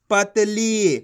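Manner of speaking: पतली with a long final ली; teacher blending पतली, last vowel held and falling; stretched long ee. Shown as a demonstration. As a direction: draw out the ee ending पतली. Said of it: "खींच के पढ़ा जाता है".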